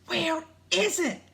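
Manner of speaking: high, frantic question; panicked. A narrator's reading. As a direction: ask it in a panic, pitched high. Jack searches while fleeing ants.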